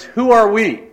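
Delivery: high, loud rallying yell; yelled at top of voice. Retold or imitated. Coach rallying his young players, loud high yell. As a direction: bellow it like a coach firing up kids. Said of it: "yell out at the top of his voice".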